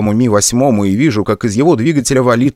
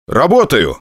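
combat callout; 5 semitones higher than usual. Acted. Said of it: "доложил я".

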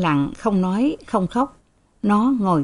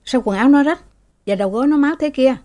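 alarmed question; 7 semitones higher, 3 dB louder, much faster than usual. Acted. Master asks sharply.

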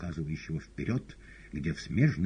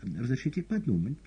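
meek; 8 semitones higher than usual. A narrator's reading. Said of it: "смиренно ответил кот".

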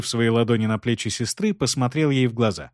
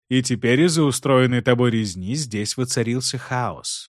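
cold. Acted. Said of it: "холодно произнёс Кейван".

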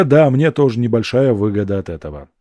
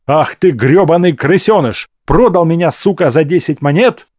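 loud, higher-pitched rage; furious growl; 6 semitones higher, 6 dB louder than usual. A narrator's reading. Freed captive pinning the friend who sold him, furious growl. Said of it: "прорычал я".

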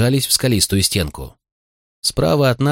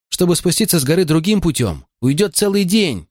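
shouting; 9 semitones higher than usual. A narrator's reading. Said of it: "закричал я".

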